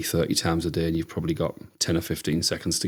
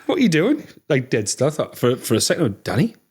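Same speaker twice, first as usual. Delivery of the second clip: calling out; 6 semitones higher than usual. Retold or imitated. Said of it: "so I turned".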